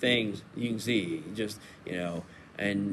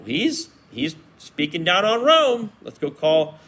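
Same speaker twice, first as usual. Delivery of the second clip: accusing opponents; 3 semitones higher, 3 dB louder than usual. Retold or imitated. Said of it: "turn around and say the very opposite".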